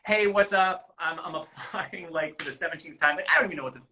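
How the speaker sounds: loose, pretend applicant chatter; off the cuff. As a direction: improvise a casual pitch to camera. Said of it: "it's really just off the cuff".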